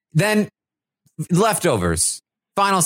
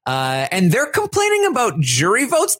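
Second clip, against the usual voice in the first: higher pitched, hammed-up complaining rant; mock rant; 6 semitones higher than usual. Host replaying Michael's diary room rant, mock angry. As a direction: vent like a fed-up houseguest. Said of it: "That was the only part of the rant".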